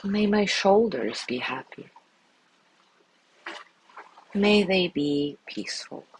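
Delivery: calm, measured voice with long pauses; guided meditation. Acted. Teacher guiding listeners through a loving kindness body scan, calm meditation voice. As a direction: lead them gently through each phrase, leaving space after it.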